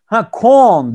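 mock French clerk guessing; mishearing waiter. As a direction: play the clerk catching the wrong word. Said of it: "dedi herif".

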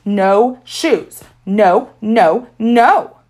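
put-on loud, rising toddler scream; screaming tantrum. A narrator's reading. Little boy kicking at the shoe salesman, screaming. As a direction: scream it mid tantrum on the floor. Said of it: "He screamed".

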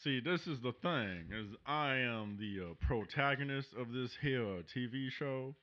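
a hint of a drawling southern colonel; folksy cowboy hero; lightly voiced southern hero talking about whiskey; southern gentleman. Southern protagonist character.

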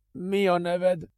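high, cold voice of the master. Acted. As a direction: ask it as a superior. Master Adrian questions captive.

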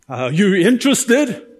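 lightly mimicked sales pitch; a hint of a salesman angling for a customer; pouncing car salesmen. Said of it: "five or six guys suddenly popping up".

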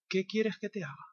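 softly voiced Jesus; gentle, quiet question. Jesus looking at the blind man, asking softly. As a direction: drop to a hushed, tender ask.

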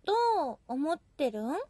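Gunma dialect. Acted. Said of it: "ちょっと盛ると、".

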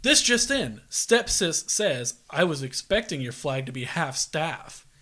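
mock serious news anchor read; newscaster voice. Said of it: "Do your best newscaster voice".

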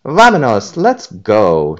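loud high cheer. A narrator's reading. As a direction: cheer the group onward. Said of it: "cheered Dora".

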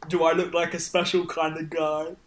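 lightly put-on shopkeeper voice; hint of a suspicious merchant; character voice. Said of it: "my voice".

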